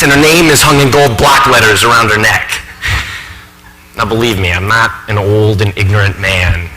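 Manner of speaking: earnest, lively professor confiding in the audience; exasperated, admiring academic in a stage monologue; animated college professor. Acted. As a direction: think aloud with swings of pitch and emphasis.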